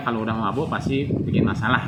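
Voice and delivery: ordinary delivery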